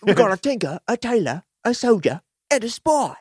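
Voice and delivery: high, dramatic trailer announcer listing each one; movie trailer voice. Retold or imitated. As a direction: sell it like a movie trailer, one item at a time. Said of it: "That was the trailer".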